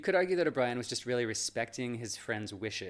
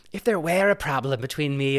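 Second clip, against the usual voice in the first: put-on Irish accent; 2 semitones higher, 7 dB louder than usual. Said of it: "is that offensive, my Irish accent".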